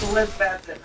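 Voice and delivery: Elizabethton said the local way, last T let go; local pronunciation. Shown as a demonstration. Telling a friend her town's name, local pronunciation. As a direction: let the final T of Elizabethton flow off. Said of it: "that's how you say it".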